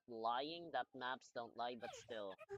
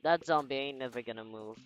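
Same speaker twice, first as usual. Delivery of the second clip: excited taunt; 12 dB louder, faster than usual. Real, not acted. Loud fast triumphant taunt.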